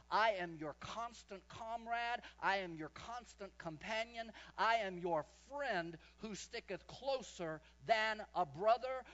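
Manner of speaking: slow, solemn words of comfort; slow and steady, like a comforting promise; voicing God. Preacher voices God comforting him, slow and solemn. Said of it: "He said, Well, let me tell you something".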